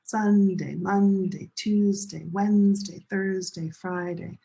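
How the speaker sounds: SUNday, MONday, TUESday, WEDNESday, THURSday, FRIday, first syllable strong; same stress pattern. Shown as a demonstration. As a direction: chant Sunday to Friday in a strong-weak beat. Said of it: "They're the same stress pattern".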